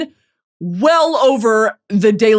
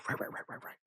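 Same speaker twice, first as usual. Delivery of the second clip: whispered rights; 25 dB quieter, much faster than usual. Real, not acted. Awkward mock agreement.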